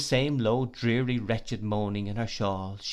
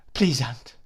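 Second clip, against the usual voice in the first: a tearful please, a bit louder; sobbing young woman, slightly louder; 4 dB louder than usual. Acted. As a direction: plead with her aunt through sobs. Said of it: "sobbed Emily".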